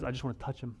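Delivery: soft, creepy mock voice of the woman; hushed creepy murmur. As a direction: play it a little creepy and hushed. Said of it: "creepily says".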